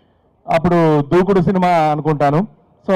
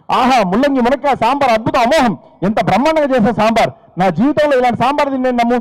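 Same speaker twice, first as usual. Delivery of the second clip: overblown praise; 5 semitones higher than usual. Retold or imitated. Husband overpraising wife's sambar.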